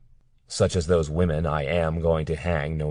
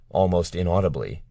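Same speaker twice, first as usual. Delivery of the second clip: usual speaking voice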